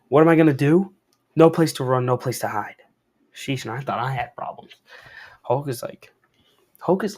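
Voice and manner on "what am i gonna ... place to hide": louder and higher in frantic panic; frantic cry of a trapped man; panicked outburst. Acted. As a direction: spiral into a cornered panic. Mimic panicking, voice rising.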